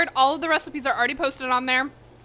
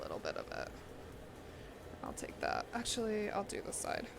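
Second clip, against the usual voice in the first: whispering; 3 semitones lower, 18 dB quieter than usual. Real, not acted. Mumbling to self while eating.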